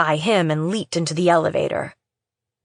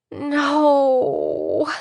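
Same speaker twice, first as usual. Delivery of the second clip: despairing cry; 6 semitones higher than usual. Acted. Sees blood on her blouse.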